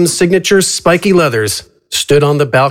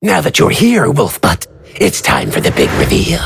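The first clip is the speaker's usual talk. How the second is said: high theatrical villain, smug; a smug, high showman announcing; 3 semitones higher than usual. Acted. Narrator voices AJ character.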